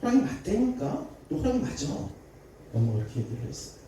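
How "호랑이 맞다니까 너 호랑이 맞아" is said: irritated mother. Retold or imitated. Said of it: "엄마가 막 짜증나기 시작했어".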